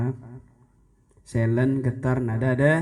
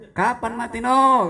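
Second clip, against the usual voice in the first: joking laugh; 8 semitones higher, 6 dB louder, slower than usual. Retold or imitated. Joking phone call with Reno.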